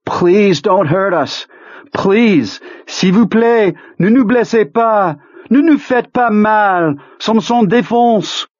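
high, drawn-out pleading; desperate begging. A narrator's reading. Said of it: "Pete begged with them".

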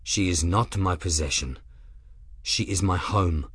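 deadly calm, each word measured; calm, level threat. Acted. Grim warning Rook he will kill him, calm and low. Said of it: "calm, level tone".

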